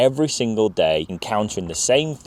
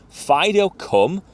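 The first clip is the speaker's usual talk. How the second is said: recall cue; 8 semitones higher, slower than usual. Shown as a demonstration. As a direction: give the dog a clear recall call. Demonstrates the proper recall cue.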